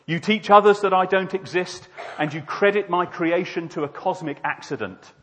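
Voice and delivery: accusing God, weighty and emphatic; voice from the sky. Acted. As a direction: confront the sinner from on high. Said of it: "a voice came out of the sky".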